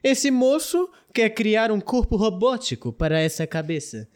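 lightly theatrical, swooping delivery; grandiose patron. Acted. Patron offering Ametista a new project, grandly theatrical. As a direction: present it like a self-pleased benefactor.

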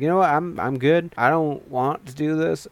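mock nervous refusal. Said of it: "And Billy's like".

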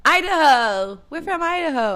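put-on high-pitched, unsure stab at an Idaho accent; put-on Idaho accent for an audience member; attempted Idaho accent. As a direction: fake an Idaho accent badly. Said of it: "how to do an Idaho accent".

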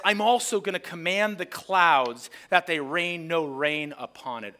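spring the trap on the crowd. Shown as a demonstration. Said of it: "Isaiah is now springing the trap".

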